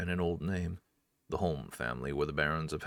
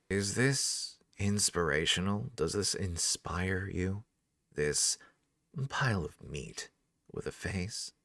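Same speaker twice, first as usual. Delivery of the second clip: slow mocking taunt; 2 semitones higher, slower than usual. Cecilia taunts the soldiers.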